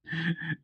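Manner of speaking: soft high chuckle; amused laugh. A narrator's reading. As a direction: chuckle at the idea. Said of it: "laughed too at the idea".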